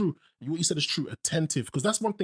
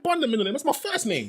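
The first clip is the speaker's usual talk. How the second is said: mocking tone; 7 semitones higher than usual. Quoting people, mocking.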